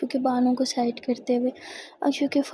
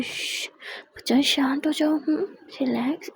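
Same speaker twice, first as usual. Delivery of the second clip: soothing hush; 2 semitones higher than usual. Acted. Comforting crying friend.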